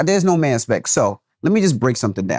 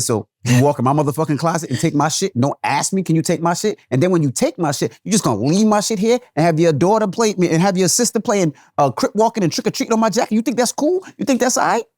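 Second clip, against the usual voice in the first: rising, higher indignant lecture; angry dad scolding; 4 semitones higher than usual. Retold or imitated. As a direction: tear into the kid for taking his stuff. Dad scolding daughter over jacket.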